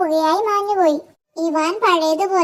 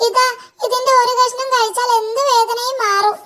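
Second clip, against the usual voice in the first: a higher, eager little devil voice; eager imp; 6 semitones higher than usual. A narrator's reading. Imp offering Ivan the healing root, higher and eager. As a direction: hand it over like a nervous imp.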